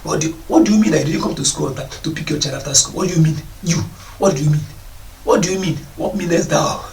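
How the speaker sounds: pompous parent putting on grand English; mock big English. School head mocking a parent's showy English. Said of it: "Start speaking big English".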